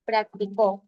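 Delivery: practicó stressed on its final syllable, prac-ti-CÓ; practicó as an aguda, weight at the end on CÓ; stress on last syllable. Shown as a demonstration. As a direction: land on the closing CÓ of practicó, pitched low. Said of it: "varíe al momento de yo pronunciar".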